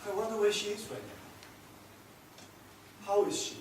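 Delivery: soft, hushed wondering to himself; wistful musing. Acted. Man wondering aloud about his lost love, wistful. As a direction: let the words fall quietly between long pauses.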